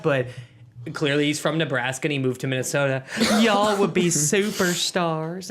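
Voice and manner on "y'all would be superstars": higher, louder, slow, with a laugh breaking in; quoting the Costco guy while cracking up; high-pitched sweet guy. Retold or imitated. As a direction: repeat the compliment in his voice, laughing. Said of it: "kinda talk like that".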